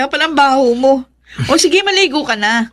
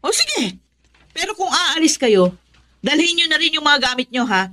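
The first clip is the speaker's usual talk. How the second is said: quiet threat; 3 semitones higher, 3 dB quieter than usual. Acted. Mother's quiet threat to leave.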